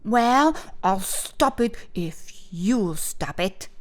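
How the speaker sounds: grudging offer. Acted. Boy offering a truce, mildly grudging. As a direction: concede a little, rising at the end.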